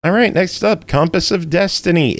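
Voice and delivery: high, sing-song host announce; announcer voice. Acted. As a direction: hype up the next title. Announcing the next game.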